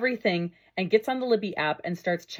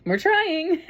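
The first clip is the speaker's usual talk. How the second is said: bashful aside; 11 semitones higher, 6 dB louder than usual. Real, not acted. Modest reaction to the praise.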